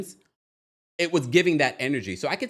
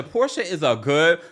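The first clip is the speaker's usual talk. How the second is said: breaking into laughter mid-line; can't get it out for laughing; 4 dB louder than usual. Real, not acted. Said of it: "I couldn't even get it out".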